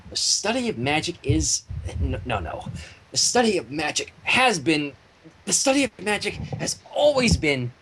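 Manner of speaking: spiral into panic with each restart; building from muttered to shouted; frantic Twilight. Acted. Twilight's frantic essay attempts.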